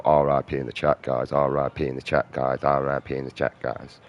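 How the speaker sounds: flat, repetitive mock streamer chant. Mocking other streamers to viewers, a flat droning parody. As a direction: parrot a lazy streamer, droning. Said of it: "I could sit there and just go".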